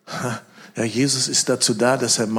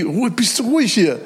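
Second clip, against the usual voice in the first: scolding hush; 9 semitones higher, 4 dB louder than usual. Retold or imitated. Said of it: "Und die".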